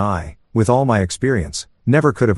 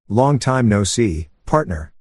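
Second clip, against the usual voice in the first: mocking; slower than usual. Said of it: "almost mocking".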